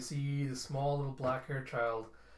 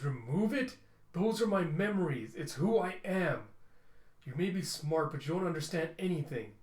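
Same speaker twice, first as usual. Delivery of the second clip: higher, louder indignant pushback; upset protest; 4 semitones higher, 3 dB louder than usual. Acted. Tim protesting to the Descenders, indignant and loud. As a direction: defend who he is, rising in anger. Robot defends his memories.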